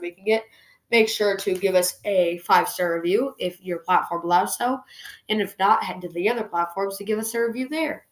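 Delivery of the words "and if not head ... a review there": congested, stuffy-nosed voice; blocked nose. Real, not acted. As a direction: talk through a blocked nose. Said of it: "I'm super congested today".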